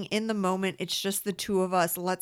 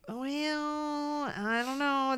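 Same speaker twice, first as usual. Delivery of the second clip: sarcastic quote; 7 semitones higher, 3 dB quieter, much slower than usual. Retold or imitated. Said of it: "And I'm like".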